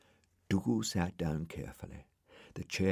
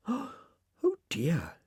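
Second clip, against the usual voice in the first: Florence's dismay; 10 semitones higher than usual. A narrator's reading. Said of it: "she said".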